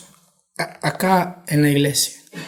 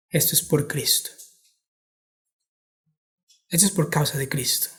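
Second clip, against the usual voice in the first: quiet martyr's words; 2 semitones lower, 9 dB quieter than usual. Retold or imitated. Martyr's quiet words before death.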